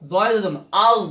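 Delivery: আজ: a soft, easy জ at the end; soft Arabic letter. Shown as a demonstration. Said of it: "একদম নরম আজ". (আজ একদম নরম উচ্চারণে)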